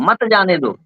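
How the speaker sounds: मत जाने दो as one phrase; मत joined to जाने दो. Shown as a demonstration. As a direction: keep मत together with जाने दो, after a break. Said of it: "अर्थ था". (मत जाने दो एक साथ, बिना विराम)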